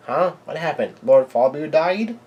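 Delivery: mock dumb question. Lilin asks the giants what happened, mock clueless question. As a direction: imitate a clueless child not getting it. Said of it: "asks a pretty dumb question".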